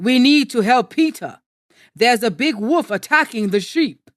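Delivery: urgent shout. A narrator's reading. Village man rallying others to save Peter, calling urgently. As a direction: sound the alarm and rally help. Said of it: "he shouted to some other men".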